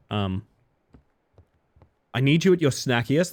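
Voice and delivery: normal talking voice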